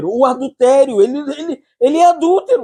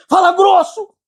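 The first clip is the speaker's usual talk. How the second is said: leader's order; 11 semitones higher than usual. Retold or imitated. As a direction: bark the order like a stern leader. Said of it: "o líder falava assim".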